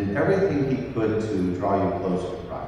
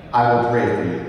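"I will pray for you" said louder and firmly, leaning on "I"; emphatic promise; 6 dB louder than usual. Real, not acted. Repeated promise, second louder.

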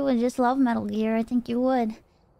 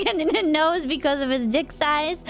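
laughing; 2 semitones higher than usual. Real, not acted. Laughing while telling.

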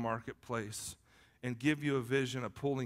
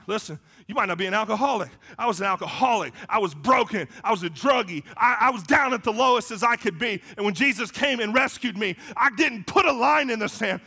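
loud, raised-pitch testimony; emphatic preaching; 9 semitones higher, 11 dB louder than usual. Acted. Former alcoholic testifying to the church, emphatic preaching. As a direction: hammer out each confession to the church.

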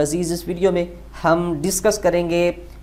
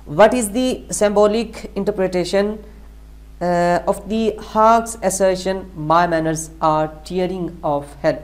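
very slow, deliberate question reading; reading aloud; much slower than usual. Acted. Teacher reading an exam question to students, slow read-aloud. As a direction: read it out word by word, slowly.

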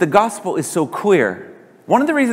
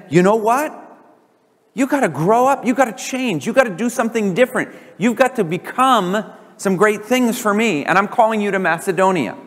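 higher, lightly voiced divine call; God urging Paul to change, pitched up; 5 semitones higher than usual. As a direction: call him onward, a touch lifted. God speaking to Paul in dream.

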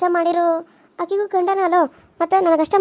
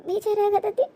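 higher, soft, whining ಬೇಜಾರಾಗತೈತಿ with a rising end; sad whimper; 3 semitones higher, 5 dB quieter, slower than usual. Acted. Guilty wife to herself, soft rising whimper. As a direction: let it break upward into a whine.

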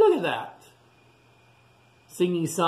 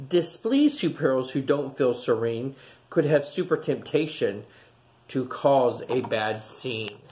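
gentle storybook read-aloud voice; storybook rhythm for little listeners; reading to children; 2 semitones lower than usual. A narrator's reading. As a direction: read it like a bedtime picture book. Reading picture book to children.

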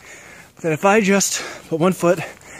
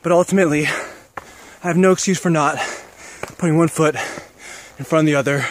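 winded words between steps; breathless, pushing uphill; out of breath; 2 semitones lower, faster than usual. Real, not acted. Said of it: "I'm out of breath".

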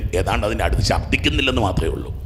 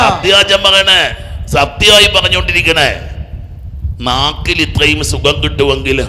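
loud, raised sermon voice, slowing for emphasis; forceful preaching; 6 semitones higher, 6 dB louder than usual. Real, not acted. Preacher promising the soul's joy to the faithful, forceful preaching. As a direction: proclaim it to the congregation, stretching the key phrases.

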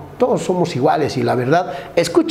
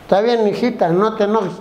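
higher, placating husband voice; meek husband; 3 semitones higher than usual. Acted. Cheated husband placates his wife, lightly acted meekness. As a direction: give in meekly, pitched up. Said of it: "Y el hombre dice".

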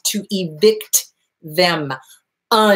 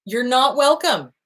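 slow flat repeat; 2 semitones higher than usual. Shown as a demonstration.

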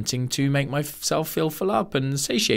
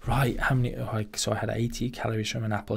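mock calorie counter; 3 semitones lower, 8 dB quieter, faster than usual. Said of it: "imagine you're like".

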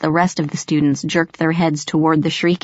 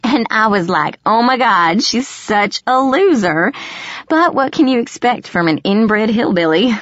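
higher, mocking nasal sneer; nasal mean girl; 4 semitones higher than usual. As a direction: sneer like a queen bee. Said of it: "her nasal voice cutting through the hall".

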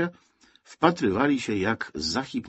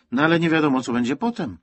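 put-on child putting on an adult's tone; raised, emphatic, know-it-all grown-up manner; 8 semitones higher, 5 dB louder, faster than usual. A narrator's reading. Child explains saving bread to Zosia, in a grown-up tone. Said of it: "powiedziała Jadzia tonem dorosłej osoby".

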